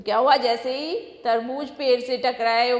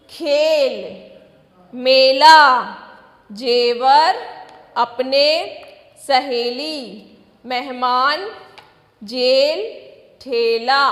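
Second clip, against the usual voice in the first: each word set apart and clearly said, some punched loud; a teacher calling out spelling words one by one; slow, deliberate classroom word drill; word list read to children; 3 dB louder, slower than usual. Shown as a demonstration. Teacher reads word list aloud.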